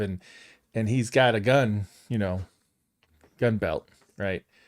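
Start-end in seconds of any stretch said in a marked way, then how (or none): none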